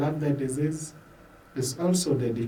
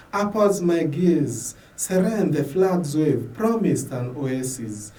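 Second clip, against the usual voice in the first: raised, earnest lines, lifting on Lord; prayer poem; 3 dB louder than usual. Acted. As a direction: recite it as a solemn prayer.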